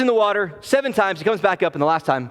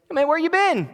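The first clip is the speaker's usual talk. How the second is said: knowing tease; 10 semitones higher than usual. Retold or imitated. Elisha catching Gehazi.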